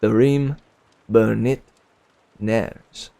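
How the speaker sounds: each word set apart with pauses; name broken into three separate words; spaced out. Shown as a demonstration. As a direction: say "Therim", "Burnett", "Nars" as three slow separate beats. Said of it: "spaced out".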